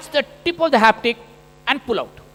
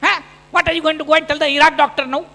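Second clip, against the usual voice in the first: mock wife scolding; 3 semitones higher than usual. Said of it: "She said".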